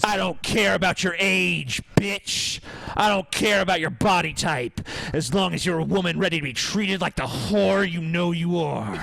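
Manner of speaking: aggressive macho voice. Acted. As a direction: bark orders like an alpha. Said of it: "This is how you fucking talk to a woman".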